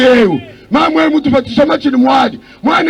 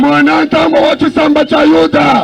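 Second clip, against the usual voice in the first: interpreter echoing the preacher with force; interpreted sermon. Acted. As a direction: carry the preacher's lines into the local tongue.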